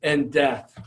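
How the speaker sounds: mild retold plea, pressing then subsiding; begging. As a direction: plead earnestly with a father, easing off at the end. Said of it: "he begs his father".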